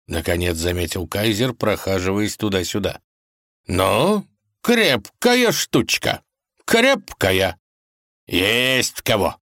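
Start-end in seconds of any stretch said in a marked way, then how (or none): 3.7-7.6 much higher, slow, relishing; hammy old kaiser; admiring kaiser. Acted. 8.3-9.4 modest reply. Acted. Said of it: "скромно отозвался царь".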